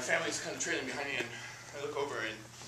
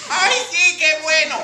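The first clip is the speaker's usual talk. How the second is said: high, drowsy grandma voice; a sleepy abuela mumbling approval; sleepy old grandmother; 12 semitones higher, 12 dB louder than usual. Retold or imitated. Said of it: "she was like".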